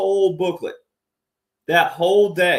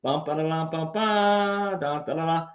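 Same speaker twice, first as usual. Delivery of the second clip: vocal drum ruffle; 4 dB quieter than usual. Shown as a demonstration. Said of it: "They call them ruffles and flourishes".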